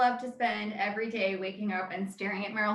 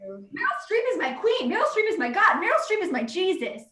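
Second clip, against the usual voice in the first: rising, higher voice in mock worship; fervent self-quote; 4 semitones higher than usual. Replaying her defense of Meryl Streep to Pete, higher and gushing. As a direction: build into a devoted fan's rapture. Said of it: "And I was like".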